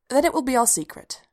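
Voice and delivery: firm. A narrator's reading. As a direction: state it firmly, starting high. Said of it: "she said firmly".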